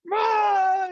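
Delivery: high, loud imitation wail; acted tantrum shriek; child's tantrum scream. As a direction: scream like a toddler mid-tantrum. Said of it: "screaming and kicking and tantruming".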